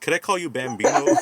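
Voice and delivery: high, eager retold question; eager request. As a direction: imitate a teacher's delighted request, pitch lifted. Retold teacher's delighted request.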